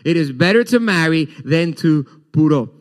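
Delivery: laughing repeat. Real, not acted.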